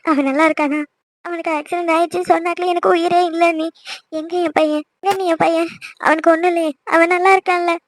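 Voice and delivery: anxious mother pleading through mild tears; tearful. Acted. Distraught mother asking relatives about her injured son, tearful. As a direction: ask with a touch of crying, desperate for reassurance. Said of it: "நீ அழாதீங்க".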